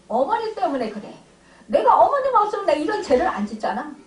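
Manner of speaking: 더 크고 빠르게 어머니 탓을 쏟아내듯; 억울함이 치밀어 오른 투덜거림; 원망하는 속마음. Retold or imitated. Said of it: "이런 생각이 드는 거죠". (어머니를 탓하는 원망 섞인 속마음)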